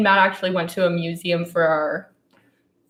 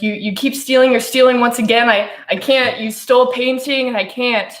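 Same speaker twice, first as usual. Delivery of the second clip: mock angry boyfriend; 4 semitones higher, 3 dB louder than usual. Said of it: "he's like".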